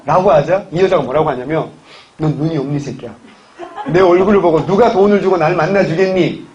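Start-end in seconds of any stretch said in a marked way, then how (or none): 2.2-6.5 hammed-up indignant retort with a laugh in it; playfully acted flare of anger; mock angry outburst. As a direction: imitate a wife blowing up at her husband. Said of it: "라고 버럭 화를 내면서".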